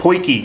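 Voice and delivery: "poikie" pronounced POY-kee; proper pronunciation. Shown as a demonstration. Correcting the Yanks for viewers, properly pronounced "poikie". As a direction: give "poikie" an OY, then a kee. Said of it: "how to pronounce that word".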